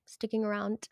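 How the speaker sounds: soft whispered afterthought; whispering. Real, not acted. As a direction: whisper it playfully. Closing aside whispered.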